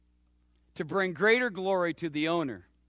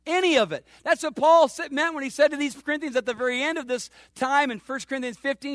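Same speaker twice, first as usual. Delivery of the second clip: ordinary talk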